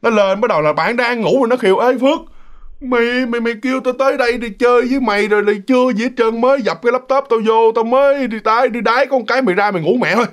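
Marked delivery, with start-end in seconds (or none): 1.8-10.3 higher-pitched grumbling at a sleepy friend; nagging complaint. Retold or imitated. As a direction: pester a friend who dozed off. Friend nags sleeping friend in story.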